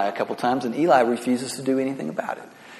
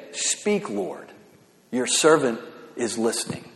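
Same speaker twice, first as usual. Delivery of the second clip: humble prayer; 3 semitones lower, 4 dB quieter than usual. Retold or imitated. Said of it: "you say".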